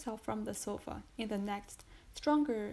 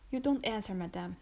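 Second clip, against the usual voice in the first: louder, stern exclamation; exclaiming; 5 dB louder than usual. Acted. Judge demanding an answer from his wife, sharply louder. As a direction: press her for an answer. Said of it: "exclaimed the terrible interrogator".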